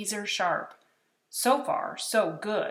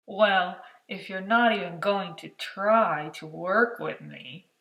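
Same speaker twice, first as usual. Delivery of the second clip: whined; 4 dB louder than usual. Acted. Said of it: "Mac whined".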